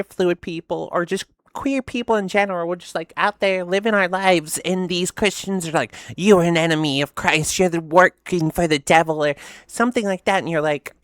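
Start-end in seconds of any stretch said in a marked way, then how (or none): 6.1-9.2 loud imitation of a preachy accuser; hammed-up condemnation; mock accusation. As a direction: accuse them loudly, in mockery. Mimicking Christians' accusations.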